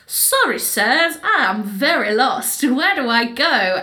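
a hint of a naive American; faux-innocent lost tourist. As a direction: play dumb sweetly. Mitch faking being lost.

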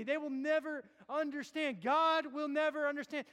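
preaching a sinner's panic; rising anguish. Acted. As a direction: build the fear to a cry. Escalating preaching.

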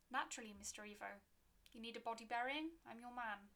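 put-on keen, quick old gravedigger; fast, eager to please; eager graveyard keeper.

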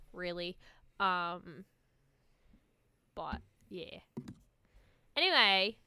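light put-on Australian accent; casual chat in a mild Australian accent. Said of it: "I'm gonna stop talking in an Australian accent now".

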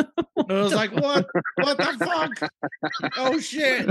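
high, loud mock disbelief; retold high-pitched yelp of shock; incredulous outburst. Airman retelling being hung up on, high incredulous outburst.

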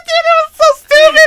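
high, laughing exclamation; helpless laughter at the memory; laughing hard. Real, not acted. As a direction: crack up while saying it. Laughing recalling the story.

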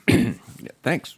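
chewing while talking; talking through a mouthful; mouth full. Real, not acted. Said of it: "You were chomping away there".

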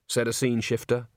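usual speaking voice

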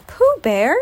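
high, loud, happy cry; delighted squeal. A narrator's reading. Piglet recognising Pooh from under the chair, squealing happily. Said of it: "squealed the delighted Piglet".

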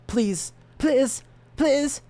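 high, pleading squeak; squeaky begging. Real, not acted. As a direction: beg it in a tiny high voice. Begging the file to save.

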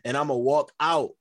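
cocky champ boasting; wrestling promo. Acted. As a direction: brag like a wrestler on the mic. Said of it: "really just cut a promo".

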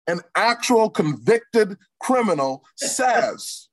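rising impassioned oratory; preacher voice. Real, not acted. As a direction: build it up like a sermon. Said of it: "I could really put on my preacher voice".

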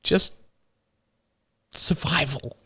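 put-on a young boy fighting back sobs, laughing bitterly; tearful boy. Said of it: "The younger boy burst into tears".

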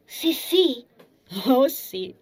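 put-on high, loud little-girl eagerness; eager, high-pitched yes; excited child. A narrator's reading. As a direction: burst out like a thrilled small child. Wide-eyed child eager for gift.

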